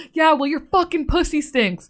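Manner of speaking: retold insult. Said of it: "girl goes to the manager".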